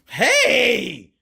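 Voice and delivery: loud, high shout; sudden high, loud cheer; excited whoop. Real, not acted. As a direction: holler it out at a big play. Whooping at a play.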